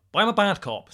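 mock hard man announcing his role; put-on bad-cop voice. Claiming the bad cop role, put-on voice. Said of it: "but just stop that voice".

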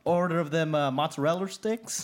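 Brit attempting an American accent; put-on American twang with heavy Rs; lightly exaggerated American accent imitation; mock American accent. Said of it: "trying to do an American accent".

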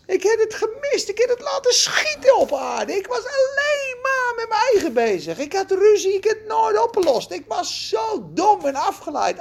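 high, anguished lament with a touch of crying; a man weeping over his missed life; regretful wailing. Acted. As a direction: wail over the lost inheritance. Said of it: "En hij huilt".

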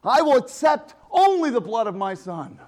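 a hint of the Father demanding payment; God the Father. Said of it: "puts out his hand and says".

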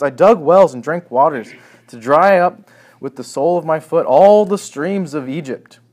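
a prophet mimicking a king's bragging, loud and mocking; mocking boast. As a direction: puff up the boast to mock it. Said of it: "Isaiah is mocking those".

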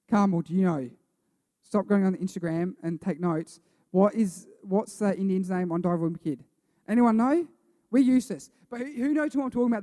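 loud call across the room. Real, not acted. Pastor calling out loudly to the congregation for an answer.

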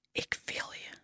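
breathless intimate whisper; a soft lover's whisper before the move. Acted. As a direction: whisper it close to the ear. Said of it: "fluister je".

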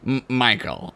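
lightly imitated halting producer; Brandon Braga. Producer calling his actor, halting imitation. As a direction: stammer slightly on the name. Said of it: "this is how he talks".

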